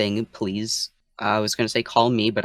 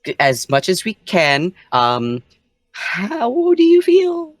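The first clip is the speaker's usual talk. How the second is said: gentle concern; 5 semitones higher, 5 dB louder than usual. Acted. Player's character speaks to possessed friend.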